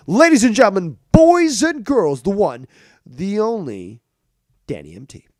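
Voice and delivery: announcer intro. Pretend. Hype intro of a guest.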